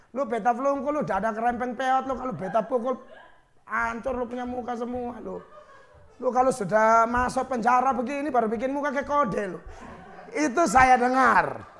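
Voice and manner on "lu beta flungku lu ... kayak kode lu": mock Kupang accent. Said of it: "pakai bahasa Kupang".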